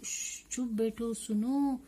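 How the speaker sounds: a shush, then question lilting upward; lightly acted call for silence; hushing listener. Translating the poem character who hears something, hushing listener. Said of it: "कोई बोल रहा है".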